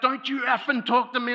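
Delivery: high, loud furious yell; imitated screaming back. Boyfriend screaming back at girl, imitated furious yell. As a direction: bark it like an enraged boyfriend. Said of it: "He's screaming back".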